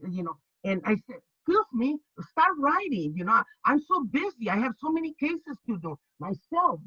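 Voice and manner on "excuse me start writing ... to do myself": sharp scolding. Retold or imitated. Scolding the staring investigator.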